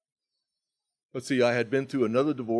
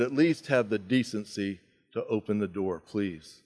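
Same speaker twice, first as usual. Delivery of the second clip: softer, lower, pleading at the door; tearful plea; 3 semitones lower, 5 dB quieter than usual. Retold or imitated. Crying at the front door to his hiding sponsee, a soft tearful plea. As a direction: beg him quietly through the door. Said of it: "I am bawling and I'm crying".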